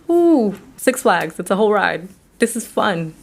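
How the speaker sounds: lightly mock giddy; mock thrilled. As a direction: play the mind treating red flags like an amusement park. Mind pretends danger is fun.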